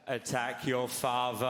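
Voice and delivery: low, slow creepy command; whisper-menace like an evil voice in the head; sinister inner voice. Retold or imitated. Voice in her head urging a child, slow low menace. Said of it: "all of a sudden I hear".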